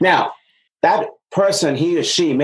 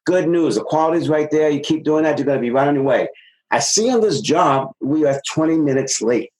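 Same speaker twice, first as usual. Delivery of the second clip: coaching demo; 4 semitones higher than usual. Shown as a demonstration.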